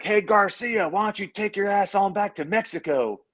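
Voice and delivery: high taunting call across the field; heckling frat fan. Retold or imitated. Frat fans at warm-ups taunting the quarterback, high jeering call. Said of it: "we're sitting there like".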